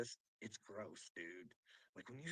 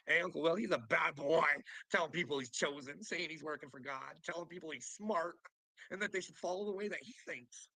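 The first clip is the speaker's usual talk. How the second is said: mock imitation; 3 semitones higher, 6 dB louder than usual. Mocking quote of Uncle Will.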